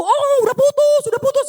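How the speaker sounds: high, exclaimed self-quote; mock announcement. Re-enacting announcing the breakup.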